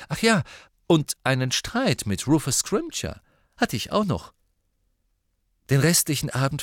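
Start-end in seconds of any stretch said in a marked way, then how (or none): 0.1-4.3 hoch und lauter, sarkastisch nachgeschoben; spöttisch etwas draufsetzen; ironischer Nachsatz. A narrator's reading. (sarkastisch hoch und laut)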